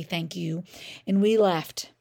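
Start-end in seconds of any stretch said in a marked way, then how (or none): 0.0-0.6 soft, barely voiced thank you; just shape the words to her; mouthed thanks. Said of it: "mouthed to her quietly".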